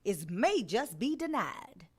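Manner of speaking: normal talking voice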